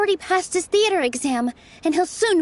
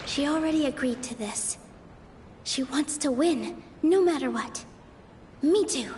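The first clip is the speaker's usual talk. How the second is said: hushed inner thoughts; 2 semitones lower, 6 dB quieter than usual. Acted. Private thoughts before the debate.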